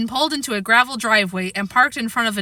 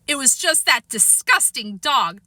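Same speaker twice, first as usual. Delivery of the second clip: snooty sneer; 3 semitones higher than usual. Acted. Sheila sneers about dog.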